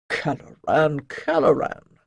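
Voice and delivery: lightly voiced priest in gentle rebuke; chiding priest. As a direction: scold a complainer with emphatic, knowing reproach.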